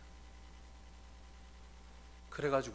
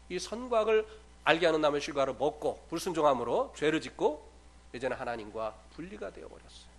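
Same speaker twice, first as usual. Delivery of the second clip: ordinary talk, nothing marked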